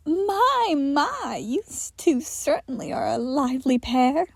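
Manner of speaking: teasing compliment with a hushed my; mild teasing purr. Acted. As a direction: tease them sweetly. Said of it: "complimented in a teasing kind of way".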